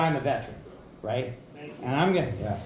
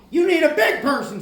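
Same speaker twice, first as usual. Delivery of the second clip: put-on South Carolina accent; 9 semitones higher than usual. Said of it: "in his thick South Carolina accent".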